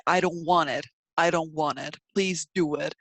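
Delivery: a gliding W slipped between "do" and "it"; linking W sound. Shown as a demonstration. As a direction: bridge "do it" with a W glide. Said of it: "intruder would be W".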